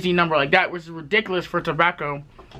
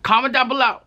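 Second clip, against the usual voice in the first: excited callout; 6 semitones higher than usual. Shown as a demonstration. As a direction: pump up the call to comment.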